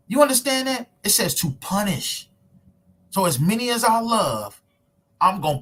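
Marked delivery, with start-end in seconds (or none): 0.1-0.9 emphatic challenge. Real, not acted. Preacher challenging his audience.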